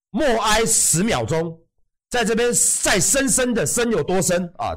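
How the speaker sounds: hammed-up mock solemn apology; a showy, insincere public apology; fake apology. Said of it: "我在这边，虽然我已经郑重道歉".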